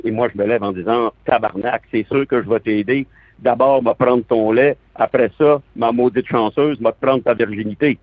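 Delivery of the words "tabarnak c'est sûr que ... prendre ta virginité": playing a Québécois groom with a strong accent. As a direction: put on an earthy Québécois accent. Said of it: "un très bon accent québécois". (accent québécois bien senti)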